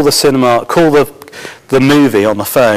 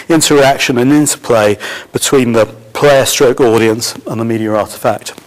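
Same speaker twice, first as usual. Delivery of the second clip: strained, fading voice; losing voice. Real, not acted. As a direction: voice giving out mid-sentence. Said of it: "losing my voice".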